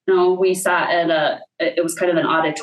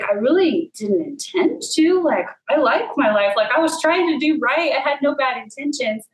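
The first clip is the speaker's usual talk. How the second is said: pleading inner voice; 5 semitones higher than usual. Retold or imitated. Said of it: "there was a part of me that was like".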